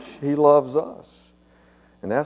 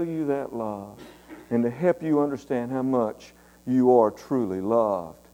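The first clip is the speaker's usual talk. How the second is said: tender motherly talk; 5 dB quieter than usual. Retold or imitated. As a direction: speak gently like a loving mom. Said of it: "she talked to me".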